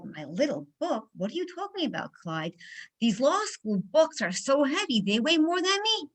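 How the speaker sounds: mildly indignant, pitch leaping up in disbelief; playful mock protest, rising high at the end. Law student answering Clyde's teasing, mildly indignant.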